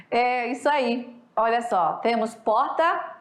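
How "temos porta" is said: porta with a palatal R. Shown as a demonstration. Teacher demos the palatal R in porta. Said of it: "o R aqui palatal".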